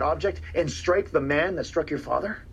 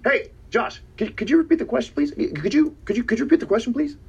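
raised, overly polite plea; higher, sugary polite asking; mock polite; 8 semitones higher, 3 dB louder than usual. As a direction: ask the question again with faux courtesy. Polite mock-humble request to interviewer.

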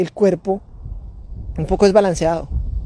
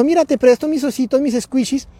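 put-on child offering; 5 semitones higher than usual. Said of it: "Me dijo".

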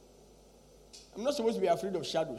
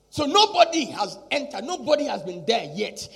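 full-force preaching; 3 semitones higher, 11 dB louder than usual. Acted. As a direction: fire rhetorical questions at the congregation.

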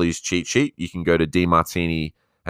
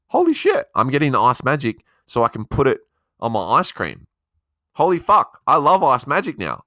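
excited realization; 6 semitones higher than usual. Acted. Coach acting out a listener's sudden realization, excited. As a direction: suddenly get it and light up.

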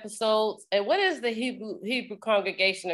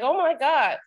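higher-pitched mock shock; mildly taken aback; 4 semitones higher than usual. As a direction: imitate a startled church secretary. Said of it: "taken back a little bit".

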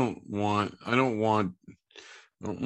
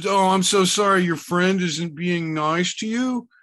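mock sympathy; 6 semitones higher than usual. Mocking fake sympathy.

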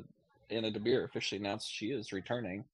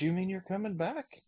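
put-on little girl voice; 10 semitones higher than usual. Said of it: "she goes".

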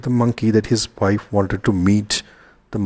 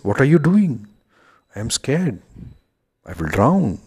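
frightened monkey; 5 semitones higher than usual. Acted. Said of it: "The monkey is frightened".

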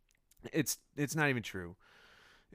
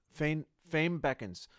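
dramatic; 6 semitones higher, 3 dB louder than usual. Pretend. Rereading with grand emphasis.

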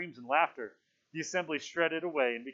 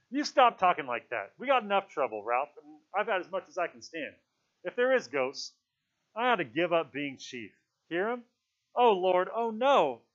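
loud, raised, distressed appeal; alarmed pleading; 5 semitones higher, 7 dB louder than usual. A narrator's reading. Piggy begs Ralph to stop, alarmed. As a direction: plead loudly with rising alarm.

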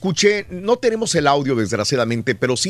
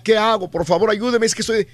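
higher pleading voice, a mock sob in it; imitated crying plea; 6 semitones higher than usual. Radio host retelling the trapped woman's 911 plea, mock sobbing. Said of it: "y lloraba".

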